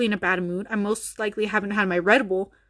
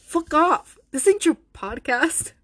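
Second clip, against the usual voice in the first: mock angry shout; 6 semitones higher, 3 dB louder, slower than usual. Angry outburst at friend.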